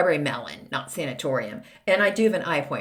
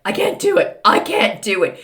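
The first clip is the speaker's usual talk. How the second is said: a hint of a little boy begging to leave; dramatic child; 6 dB louder than usual. Young son in the shop begging his mom to leave, mock-dramatic. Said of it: "Very dramatic".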